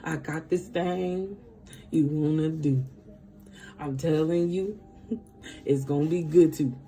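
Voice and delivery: hushed, playful persuasion; coaxing Spirit. Acted. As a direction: tempt them quietly, with amusement creeping in. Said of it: "Spirit is like".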